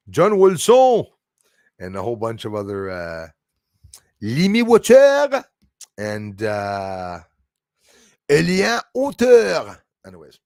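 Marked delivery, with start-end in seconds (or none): 0.1-1.0 put-on high, slow French accent. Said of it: "my little French accent". 4.2-5.4 put-on high, slow French accent. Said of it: "my little French accent". 8.3-9.8 put-on high, slow French accent. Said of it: "my little French accent".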